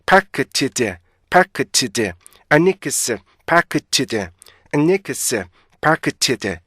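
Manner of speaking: "아니크스" and "파크치즈" in even linked beats, short gap between; two-part syllable drill. Shown as a demonstration. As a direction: sound every consonant in "아니크스" and "파크치즈". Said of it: "이렇게 읽어주셔야 돼요".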